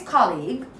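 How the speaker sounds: colleague with open aw in first syllable; American pronunciation. Shown as a demonstration. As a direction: say colleague as KAW-leeg, American style. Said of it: "the American way is".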